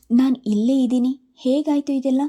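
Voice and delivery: a worried guard protesting his innocence. A narrator's reading. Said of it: "ಎಂದು ಕಳವಳಗೊಂಡ". (ಆತಂಕದ, ಗಾಬರಿಯ ದನಿ)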